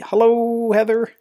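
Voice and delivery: high, parodied British hello; bad British greeting. Host in London greeting co-host across the pond, bad British parody. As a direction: lilt a poor mock-British hello. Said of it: "really bad parody of, of the hello, uh, British greeting".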